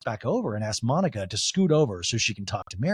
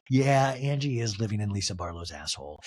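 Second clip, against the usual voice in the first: lower, deadpan chorus voice; group agreement; 5 semitones lower than usual. Retold or imitated. Castmates agreeing with a dig at another, lowered mock agreement. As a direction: lightly mimic castmates agreeing, pitched down. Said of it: "so they all like".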